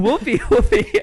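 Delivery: falsetto imitation of calling an animal; mock pet call. Retelling the lady's search for the ferret, mock pet call. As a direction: call out very high, amused.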